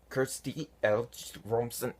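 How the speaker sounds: "Kirsty Elch Romson" as three distinct alien words; careful demonstration of "Kirsty Elch Romson"; invented-language pronunciation. Shown as a demonstration. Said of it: "It sounds like".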